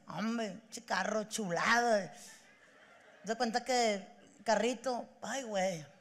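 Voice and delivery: half-hearted tearful reminiscing; mock teary. Imitating Rigoberto getting teary about his first car.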